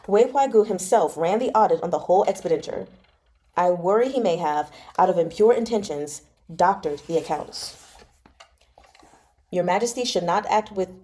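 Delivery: even, measured audiobook reading; story narration. A narrator's reading. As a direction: read the novel aloud to listeners. Resumes reading the novel.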